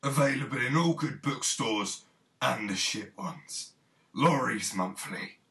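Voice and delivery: mock commercial sign-off, slow final tagline; ad announcer. Announcer closes the magazine spoof, parody advert. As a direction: announce the product like a radio ad.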